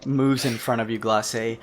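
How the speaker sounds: loud, high-pitched shop-owner sales pitch; promo spot. Acted. Shopkeeper joins in the promo recording, loud sales pitch. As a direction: announce it big to passers-by. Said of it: "Do a, do a promo spot for him".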